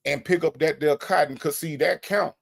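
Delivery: a hint of an old Southern boss man; Big Jeff impression. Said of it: "That's how he sounds".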